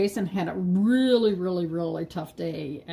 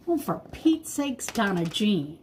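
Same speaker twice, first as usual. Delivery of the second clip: self-scolding. Real, not acted. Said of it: "Donna Jean just made a big oopsie".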